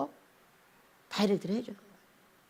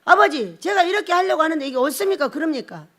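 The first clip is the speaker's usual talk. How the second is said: bold prayer; 3 semitones higher than usual. Retold or imitated. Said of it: "당당한 기도를 해야지".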